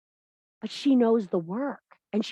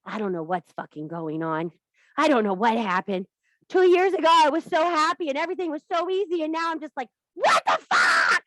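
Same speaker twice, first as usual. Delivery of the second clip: confused women imitated; 4 semitones higher than usual. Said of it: "they will look at me and go".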